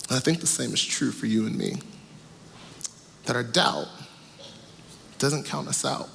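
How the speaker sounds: rising, urgent sermon voice over music; preaching at full force. Acted. Preacher assures listeners doubt doesn't count them out, fervently. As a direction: drive the point home to the congregation.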